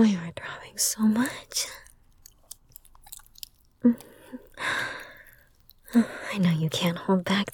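soft, breathy roleplay whisper close to the mic; intimate ASMR whisper. Acted.

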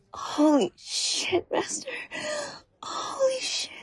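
breathy whisper rising to a high crying squeak; whispered awe. Acted. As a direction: gasp it out, voice breaking up high. Acted overwhelm in roleplay.

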